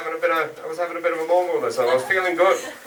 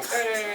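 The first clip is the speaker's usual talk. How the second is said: mock crowd "hey", higher and softer; half-hearted cheer; 6 semitones higher, 5 dB quieter than usual. Comic mimicking an audience member's cheer, half-hearted. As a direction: imitate a lone weak cheer. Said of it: "is that just somebody going".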